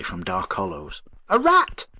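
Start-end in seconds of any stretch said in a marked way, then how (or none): 1.3-1.9 high, loud horrified cry; protesting shout. A narrator's reading. Avery protesting loudly to the professor. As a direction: fling the words out in outrage. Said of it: "he protested".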